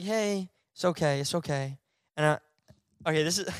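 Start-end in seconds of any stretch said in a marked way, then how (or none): 0.0-1.8 soft soothing reassurance; comforting. Retold or imitated. Consoling the crying ex, softly soothing. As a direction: hush her gently. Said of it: "I'm like this".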